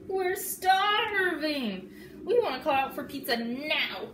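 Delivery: high loud whining yell, slow at first. Acted. Froggy yelling down to mom about pizza, loud and high. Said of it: "and yelled".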